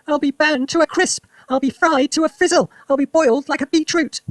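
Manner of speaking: put-on high, loud cranky old woman; grandma hollering high and loud; yelled. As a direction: yell it back indignantly. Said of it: "she yelled".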